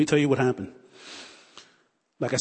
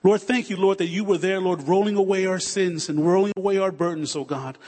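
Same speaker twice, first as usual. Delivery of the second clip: fervent prayer; 2 semitones higher than usual. Acted. Pastor leading the congregation in closing prayer, fervent. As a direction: pour it out to God in fervent prayer.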